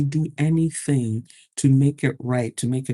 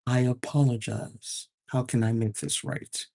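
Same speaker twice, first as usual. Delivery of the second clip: soft sincere apology; 2 semitones lower, 5 dB quieter than usual. Shown as a demonstration. Manager calmly apologizing to an upset employee, sincere and soft. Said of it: "this is what I say".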